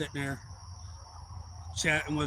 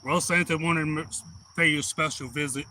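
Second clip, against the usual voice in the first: Santa voice. Retold or imitated. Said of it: "just changed my voice".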